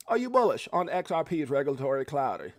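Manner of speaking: badly faked Australian accent; half-hearted Australian accent; attempted Australian accent. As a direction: have a shaky go at sounding Australian. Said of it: "let me try to do that".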